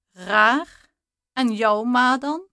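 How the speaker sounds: loud, offended snap back at the insult; indignant retort. A narrator's reading. Jana hitting back about the narrator's mother, indignant and loud. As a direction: fire it back, stung and defensive. Indignant reply in chat quarrel.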